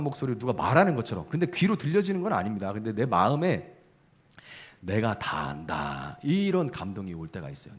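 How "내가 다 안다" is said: low, soft and very slow; gentle divine voice. Acted. The Holy Spirit gently comforting the weeping believer, low, soft and slow. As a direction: say it softly and slowly, like a comforting father.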